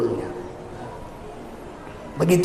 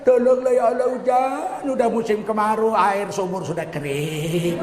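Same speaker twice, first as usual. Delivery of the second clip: mock pleading. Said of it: "Nanti nggak hujan-hujan".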